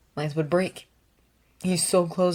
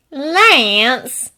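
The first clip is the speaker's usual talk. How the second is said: calling out; 7 semitones higher, 8 dB louder than usual. Acted. Sister calling through door.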